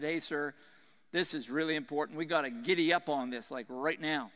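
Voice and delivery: low-key Texas cowboy twang; Texas cowboy accent. Retold or imitated. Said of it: "cowboy or Texas, uh, accents".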